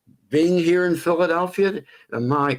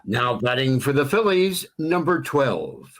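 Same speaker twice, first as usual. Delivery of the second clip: slow, rising, much higher announcer sing-song on the name; melodic PA call; 7 semitones higher, slower than usual. Shown as a demonstration. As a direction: let the name ring out melodically over the stadium. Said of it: "a more melodic interpretation".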